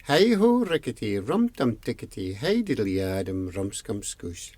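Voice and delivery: the long name spaced out, sinking in pitch and volume; slow it down, falling away to the end; said slowly. Acted. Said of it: "Could you say it slowly?".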